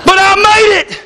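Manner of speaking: high, breathless disbelief and delight; saved members imagined in heaven, amazed and overjoyed; amazed joy. Pretend. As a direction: marvel that you made it in. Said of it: "Most of them be going".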